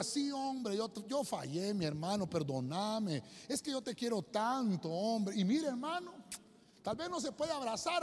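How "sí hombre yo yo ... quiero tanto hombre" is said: softly voiced plea for forgiveness; lightly acted, tender apology; imitated apologetic brother. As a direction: play a brother gently owning up. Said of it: "que el hermano le diga".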